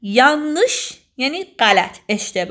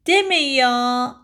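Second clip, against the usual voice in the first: slow surprise; much slower than usual. Shown as a demonstration.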